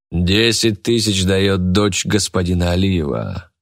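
ordinary delivery, nothing marked

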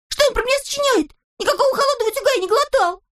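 very high and fast; hasty Toropyshka. A narrator's reading. Toropyshka protests to all, very high and fast. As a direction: rattle it off in outrage.

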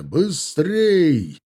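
high, urging call; shouted command. A narrator's reading. Officer rushing the retreating line, shouted command. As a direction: hurry the troops along. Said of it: "разнеслась по цепи новая команда".

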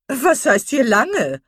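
loud, slow, scoffing matron; hearty retort. A narrator's reading. Mrs Jennings cutting Lucy off, loud and scoffing.

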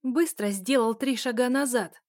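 резкий громкий приказ; рубит команду, ударение на «сделал»; угрожающий приказ. Acted. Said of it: "пригрозила я второму парню". (грозный окрик)

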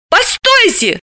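high call after him. Acted. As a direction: shout for him to stop. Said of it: "закричав".

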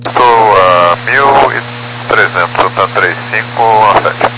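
air traffic control radio. Real, not acted. Pilot radio call to tower.

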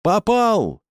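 gleeful shout; triumphant yell. A narrator's reading. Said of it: "торжествующе орал Шагабуддинов".

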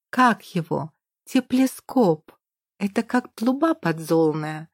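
put-on high childish voice with lisping r; a small boy pleading happily; excited little boy. Child Petyusha chatters excitedly. (восторженный детский голос, сильно выше)

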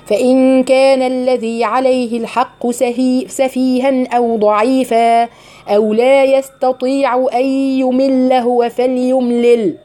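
slow, measured tajweed chanting of the verse; Quran recitation. Acted. Teacher recites the verse to her student in tajweed chant.

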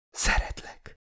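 barely voiced, very soft murmur; mumbled. A narrator's reading. Narrator's last words to the dying loved one, mumbled. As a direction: mumble it almost in a whisper.

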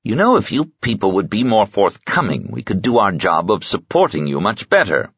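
a hint of cool distance; mildly bitter reproach, held at arm's length; understated weary complaint; distant, faintly bitter. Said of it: "Vorlinkin said distantly".

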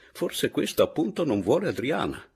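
sly, high sing-song insinuation; malicious lilt, pitched high; mischievous. A narrator's reading. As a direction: tease with a swooping, knowing tune. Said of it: "concluse maliziosamente".

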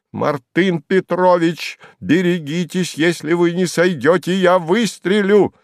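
high, slow, shouted warning; shrill threat. A narrator's reading. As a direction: warn him off at the top of your voice. Slyotkin threatens Kharlov on roof.

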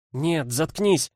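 sputtering after choking on tea; choked on tea. Acted. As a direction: blurt it out, still choking on tea. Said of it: "аж поперхнулась чаем".

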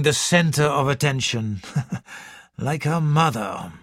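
measured, lightly voiced doctor with a small chuckle; Doctor Gerard, confident. Doctor discusses his patient with detective, confidently. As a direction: explain the case with assured ease.

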